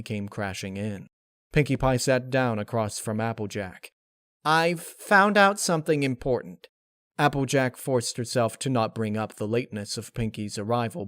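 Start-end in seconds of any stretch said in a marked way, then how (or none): 4.4-6.7 eager news. Acted. Pinkie arriving with news.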